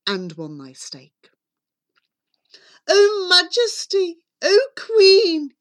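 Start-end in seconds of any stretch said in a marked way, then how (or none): 2.9-5.6 high, loud hail to the queen; hammed-up servant's cry. A narrator's reading. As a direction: call out to royalty, drawn and urgent. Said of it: "he cried".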